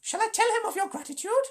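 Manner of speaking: very high, sneering jackal taunt; mocking jackal. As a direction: needle the wolves with fake politeness. Tabaki voice held.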